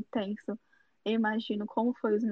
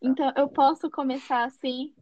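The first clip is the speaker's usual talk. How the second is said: laughing; 4 semitones higher, 4 dB louder than usual. Real, not acted. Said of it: "Calma, para de rir".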